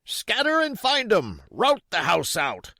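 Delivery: high, loud raging order; repeated order. Acted. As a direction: bark it again. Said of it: "reiterated Pugh".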